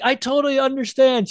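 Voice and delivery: high sweet mock voice; imitating Whoopi. Whoopi accepting the refusal, high sweet mimicry. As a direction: accept it with exaggerated grace. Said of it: "she's like".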